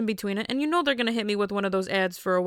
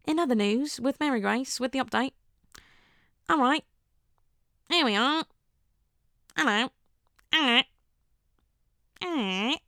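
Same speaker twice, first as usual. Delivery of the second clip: high, swooping mock British presenter; hammed-up British TV greeting, lifted in pitch; British newsreader accent; 4 semitones higher than usual. Host playing a British news station, put-on British accent. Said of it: "a British news station now".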